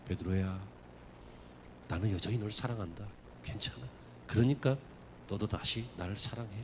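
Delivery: soft, low, loving voice; tender Jesus. Acted. Jesus restoring Peter, soft and low, tender. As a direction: speak like a gentle master forgiving. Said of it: "회복시켜주시는 분이십니다".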